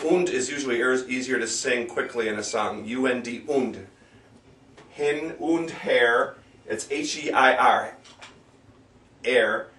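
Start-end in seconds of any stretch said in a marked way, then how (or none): 4.9-6.4 "Hin und her" slowly, word by word; slow pronunciation model. Shown as a demonstration. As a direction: spell out "Hin und her" by ear, unhurried. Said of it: "pronounced und".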